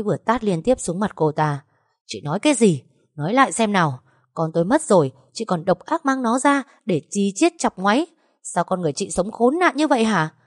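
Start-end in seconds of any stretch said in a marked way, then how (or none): 2.1-10.3 higher, rising fury as she lashes out; a wife's furious outburst at her husband's lover; furious confrontation. Acted. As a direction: tear into her with every word. Wife attacks taunting rival.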